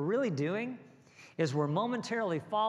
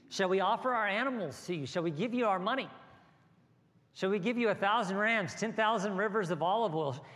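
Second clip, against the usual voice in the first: raised, pleading cry to God; 5 semitones higher than usual. Acted. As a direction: plead upward in a higher, pressing voice. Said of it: "they're crying out to God".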